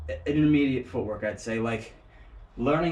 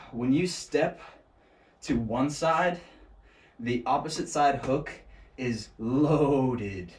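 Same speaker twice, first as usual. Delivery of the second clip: surfer stoner voice; slower than usual. Acted. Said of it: "I said it like a surfer stoner".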